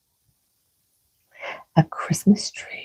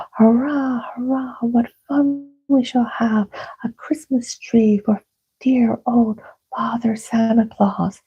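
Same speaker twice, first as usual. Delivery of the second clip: cheering fairies; 5 semitones higher than usual. Acted.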